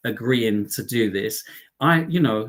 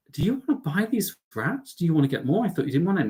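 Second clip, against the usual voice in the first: teasing questions; 5 semitones higher, faster than usual. Retold or imitated. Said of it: "I'm like".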